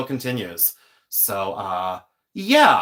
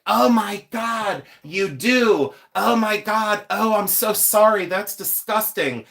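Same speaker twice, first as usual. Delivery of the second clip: high-pitched, hammed-up horror; overdone mortification, pitched up; mock mortified waitress; 6 semitones higher than usual. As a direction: imitate a gushing, horrified apology. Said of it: "she was, like, mortified".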